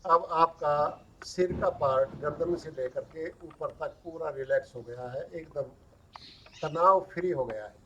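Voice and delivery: calm relaxation coaching with long pauses; guided relaxation. Acted. Yoga teacher easing students into yoga nidra, guided relaxation. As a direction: talk them into letting go, pausing between instructions.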